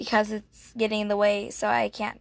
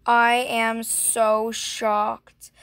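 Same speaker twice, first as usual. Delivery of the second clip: mock shock; much slower than usual. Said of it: "really show her I'm, like, shocked".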